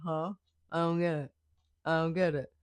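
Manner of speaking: lightly voiced puzzled little girl; mock her blank confusion; imitating a confused child. Mom imitating her daughter not getting it. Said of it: "I do that voice".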